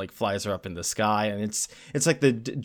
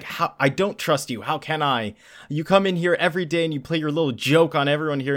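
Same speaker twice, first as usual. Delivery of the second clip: mock yelling; 4 semitones higher than usual. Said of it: "she starts yelling at him".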